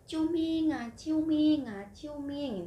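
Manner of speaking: high, loud plea; pleading for help. Retold or imitated. Asking stranger for help. (minta tolong, suara tinggi dan keras)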